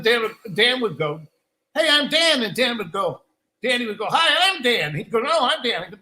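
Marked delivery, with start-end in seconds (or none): 1.7-2.4 higher, louder punchy introduction; rhythmic skit intro. Retold or imitated. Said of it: "they're giving us this rhythm". 4.1-4.9 high, loud name call; rhythmic skit intro. Retold or imitated. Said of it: "they're giving us this rhythm". 5.2-5.8 high, punchy comeback on the beat; rhythmic skit intro. Retold or imitated. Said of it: "they're giving us this rhythm".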